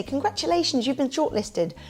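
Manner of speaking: cheery recital of a stock congratulation; congratulatory announcement. Retold or imitated. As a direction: announce good news to an applicant. Acting the message sent to applicants.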